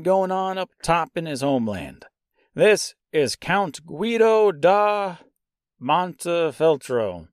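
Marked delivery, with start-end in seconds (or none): 2.5-7.3 "Guido da Montefeltro" spoken slowly, as "Gwee-doh da Mon-teh-fel-tro"; careful name attempt. Shown as a demonstration. Host trying out the count's name, slow and careful. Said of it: "Let's try that again".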